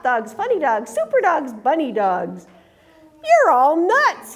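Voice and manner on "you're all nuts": loud, slow, high scornful call; grumpy outburst. A narrator's reading. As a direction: sneer it at the silly dogs. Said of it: "he said".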